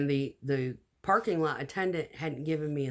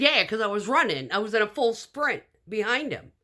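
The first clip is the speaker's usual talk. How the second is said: breathless excited retelling; 7 semitones higher, 6 dB louder than usual. Retold or imitated. Retold reply while chasing boyfriend.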